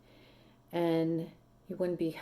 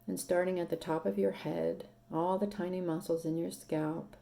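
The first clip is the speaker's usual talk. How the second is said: calm, unhurried meditation voice with long pauses; guided meditation. Acted. Meditation leader guiding seated listeners to soften and breathe, calm and unhurried. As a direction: guide them gently into relaxation, leaving space to breathe.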